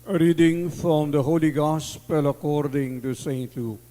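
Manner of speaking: measured solemn scripture reading; Gospel proclamation. Acted.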